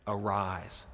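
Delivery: low, soft single word; quiet summons with a falling close; gentle command. Retold or imitated. Jesus touches the dead girl, speaking low and gently.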